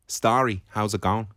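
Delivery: Dublin accent, lightly done; a careful try at a Dublin accent. Shown as a demonstration. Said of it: "That's pretty good".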